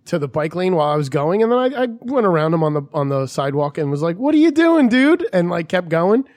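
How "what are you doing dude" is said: higher, louder indignant call; raised-voice acted confrontation; retold road-rage challenge. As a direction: call out an offending driver, pitched up. Confronts driver in retold quarrel.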